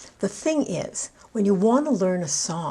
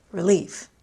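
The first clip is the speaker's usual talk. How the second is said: "Relief" as re-LIEF, second syllable stressed; 3 dB louder than usual. Shown as a demonstration. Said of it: "I stressed both on the second syllable".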